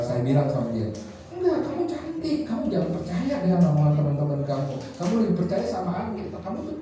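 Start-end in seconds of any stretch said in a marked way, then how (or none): 1.3-6.8 higher, softer insistent comfort; father reassuring his daughter she is pretty. Retold or imitated. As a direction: talk a hurt daughter back up.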